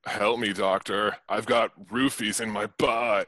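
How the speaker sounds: lightly voiced stoner; a hint of a stoned guy. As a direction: read it like a stoner. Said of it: "Your accent is stoner".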